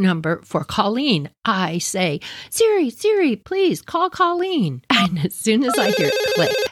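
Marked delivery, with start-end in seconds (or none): 2.5-4.8 careful command to phone. Retold or imitated. Dictating a call to Siri.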